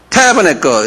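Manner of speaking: "tabernacle" with the accent on its first syllable; TA-bernacle, first syllable stressed. Shown as a demonstration. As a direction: hit the TA of "tabernacle". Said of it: "이렇게 액센트가 타에 있어요".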